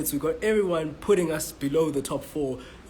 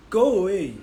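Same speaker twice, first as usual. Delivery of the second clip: louder and higher, go away!; real annoyed shout; 6 semitones higher, 9 dB louder than usual. Real, not acted. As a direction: shout at the person barging in. Shouting off the interrupter.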